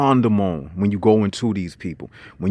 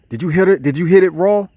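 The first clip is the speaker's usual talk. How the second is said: higher, louder mock buddy question; pitched-up slang questioning; high school buddy; 7 semitones higher, 4 dB louder, faster than usual. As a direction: put on an insistent pal quizzing a friend. Acting out high school slang talk.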